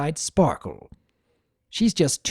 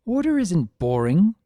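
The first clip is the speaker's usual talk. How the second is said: protesting; 7 semitones higher than usual. A narrator's reading. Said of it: "Summer protested".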